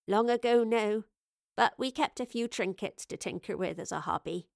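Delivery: a hint of a homely, rustic woman; lightly voiced Evie. Host explaining her hobby, lightly voiced homely woman. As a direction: lightly play a modest old tinkerer.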